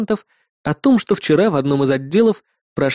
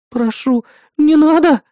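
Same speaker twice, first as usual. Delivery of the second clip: high, loud desperate plea; frightened pleading; 12 semitones higher, 4 dB louder, slower than usual. Acted. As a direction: beg him to stop. Бисмарк умоляет не звонить. (испуганная мольба, громко и высоко)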